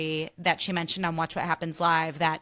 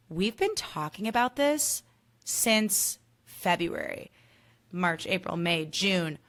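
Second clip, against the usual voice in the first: slow, disbelieving count that bursts on four months; tally it up in exasperation; exasperated counting; slower than usual. Retold or imitated.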